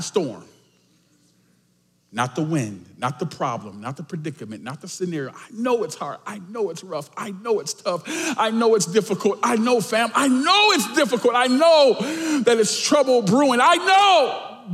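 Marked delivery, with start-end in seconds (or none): 5.3-14.7 starts hushed and swells to a high, loud cry; building intensity. Real, not acted. Preacher to the church about their hardship, building to a shout. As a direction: repeat it with mounting force.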